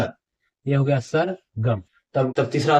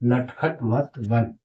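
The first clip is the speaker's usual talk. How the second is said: slow reading demo; 2 semitones lower, much slower than usual. Shown as a demonstration. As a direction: settle into the repeat. (धीरे और थोड़ा नरम दोहराना)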